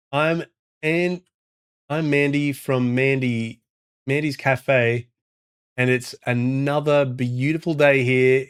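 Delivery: slow, drawn-out French Canadian accent. Shown as a demonstration. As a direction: put on a French Canadian accent, stretching the words. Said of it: "I can do French Canadian".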